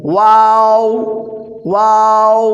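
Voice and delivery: ওয়াও loud with rounded lips start to end; Arabic letter waw. Shown as a demonstration. Teacher drilling waw with rounded lips, loudly. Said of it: "ঠোঁট গোল হবে".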